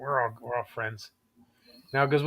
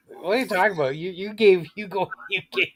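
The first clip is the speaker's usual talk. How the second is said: incredulous; 5 semitones higher than usual. Pretend. Incredulous address to Trump.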